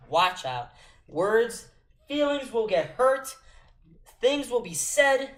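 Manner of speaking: loud, high-pitched warning; rant. Real, not acted. Fan caster warning viewers feelings will get hurt, ranting. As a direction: announce the coming rant at full voice. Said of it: "it's rant time".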